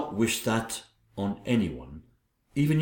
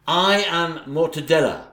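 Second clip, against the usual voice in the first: grand announcement; 4 semitones higher, 4 dB louder than usual. Acted.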